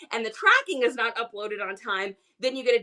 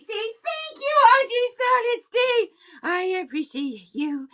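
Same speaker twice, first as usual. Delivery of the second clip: loud, high, excited thank-you; voicing the pet; 10 semitones higher, 3 dB louder than usual. For the pet to Auntie Solid State, loud and high. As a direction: gush thanks on the pet's behalf.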